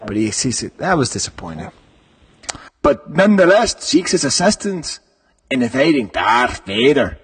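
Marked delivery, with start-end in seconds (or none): 2.8-7.2 put-on British accent. Host rereading the Lando line in a put-on British accent. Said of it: "I went all over the British Isles".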